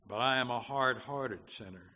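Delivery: loud, insistent objection; forceful protest; protesting sinner. Acted. Sinner's objection in quoted dialogue.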